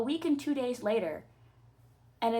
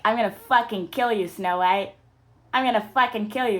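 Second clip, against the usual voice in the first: mock threat; 6 dB louder than usual. Acting the girl's threat.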